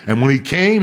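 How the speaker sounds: ordinary talk, nothing marked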